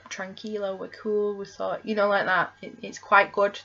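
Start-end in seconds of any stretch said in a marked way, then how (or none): 0.1-1.8 softly quoted calming words; calm reassurance. Retold or imitated. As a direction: lightly act out soothing a panicking partner. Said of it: "he's calm, and it's vice versa".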